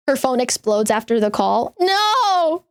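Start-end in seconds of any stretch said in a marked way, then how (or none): 1.8-2.6 surprised. Real, not acted. Reacting to exploding phone.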